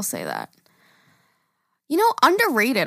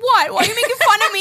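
imitating mom; 10 semitones higher, 4 dB louder, faster than usual. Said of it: "She's gonna be like".

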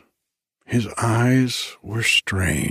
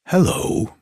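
casual and friendly; 9 semitones higher than usual. Acted. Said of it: "in a tone at once casual and friendly".

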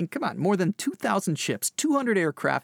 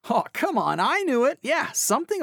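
exasperated excitement; 7 semitones higher than usual. Real, not acted. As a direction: groan that you called it. Reacting to the twist.

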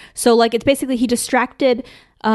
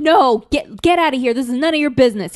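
louder, raised-pitch mock telling-off; defiant telling-off; 4 semitones higher, 4 dB louder than usual. Kid tells the stranger to leave, mock defiance. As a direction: play the kid firmly sending a stranger away.

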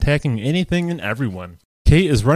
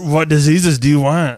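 horror movie villain; 3 semitones higher, 3 dB louder than usual. Retold or imitated. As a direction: creep the words out like a horror villain. Imitating the gremlin's line.

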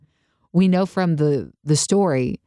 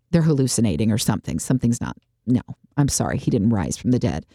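lower, quick scoffing brush-off; mock dismissive; 5 semitones lower, faster than usual. Disciples scoffing at the women's report, dismissive. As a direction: wave the women off like a skeptic.

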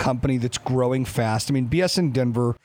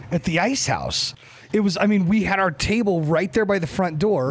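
excited, pitch up high; buzzing with excitement remembering it; adrenaline rush; 5 semitones higher than usual. Real, not acted. Excited memory of packed opening day.

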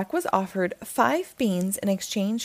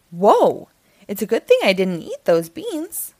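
Jack's protest; 6 dB louder than usual. Acted. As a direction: plead like a put-out farm boy. Jack amazed at beanstalk.

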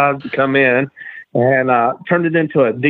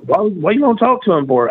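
imitating the nervous wannabe; 6 semitones higher than usual. Wannabe worried.

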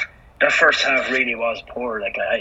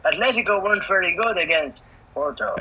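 flat announcer robot read; deadpan template voiceover; robotic voice; 6 semitones higher than usual. Pretend. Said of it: "And the robotic voice".

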